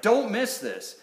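lightly urgent "don't miss this"; exclamation point. Acted. Preacher showing listeners the exclamation point in Jesus's words, emphatic. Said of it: "like an exclamation point after it".

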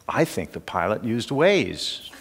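grandson's answer said through a laugh; can barely hold back the laugh; laughing quote. Retold or imitated. Grandfather retells his grandson's answer, laughing. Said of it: "and he said".

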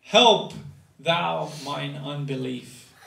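tearful father pleading; tearful plea. Retold or imitated. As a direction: cry out the first word, then plead. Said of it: "it says he cries".

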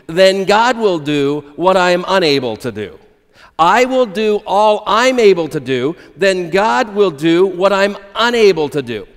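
a firm, measured creed, each clause weighed; recited motto. Shown as a demonstration. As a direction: say it like a pledge to memorize. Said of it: "it goes something like this".

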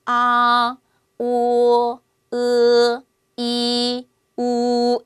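each vowel loud, held and separate; Chinese vowels. Shown as a demonstration. Teacher drills six vowels for memorizing, loud and held. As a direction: recite the six vowels clearly. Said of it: "들어갑니다".

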